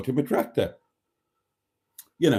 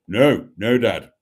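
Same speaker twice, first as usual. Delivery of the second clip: mock broken voice; 2 semitones lower, 6 dB louder, slower than usual. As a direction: drop into a newly broken voice. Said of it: "his voice had broken by then".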